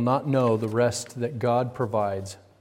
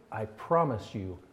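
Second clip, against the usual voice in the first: angry God; 2 semitones lower, 5 dB quieter than usual. Acted. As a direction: let the second promise sink down quiet. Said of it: "an angry God who is so upset".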